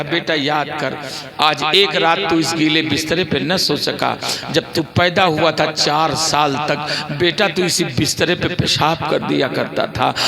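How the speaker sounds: low, measured, tender reminder; loving mother. Retold or imitated. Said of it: "माँ ने बड़े प्यार से बोला". (प्यार से याद दिलाती माँ)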